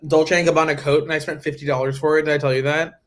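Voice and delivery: talking while chewing gum; words round a wad of gum. Real, not acted. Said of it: "I just put gum in my mouth".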